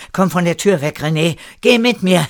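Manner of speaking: high, loud, urgent call. A narrator's reading. Erik calling René away from the door, urgent shout. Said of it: "rief Erik ihm zu".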